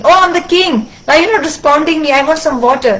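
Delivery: an offended king insisting on being answered; indignant king. Acted. King demands water from silent sage.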